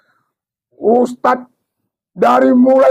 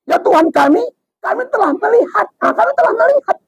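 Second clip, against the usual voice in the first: pleading sinner; 8 semitones higher, faster than usual. Acted. Sinners plead after seeing hell.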